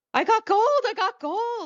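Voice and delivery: frantic, very high, loud squealing, freaking out. Retelling how a reality-show cast member reacted on the couch: imitating Christine freaking out. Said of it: "she starts freaking out on the couch".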